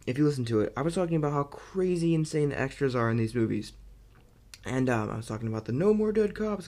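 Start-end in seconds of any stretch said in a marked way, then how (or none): 5.7-6.7 higher, louder mock cop shout; extra's line. Reviewer mimicking a Batman extra, mock shout. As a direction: bark it like a movie extra.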